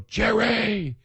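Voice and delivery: high-pitched, drawn-out name call; excited calling out. Retold or imitated. Fan hailing Jerry Lewis through his car window, excited call. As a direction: holler a name like a thrilled fan, without full volume. Calls out to passing celebrity's car.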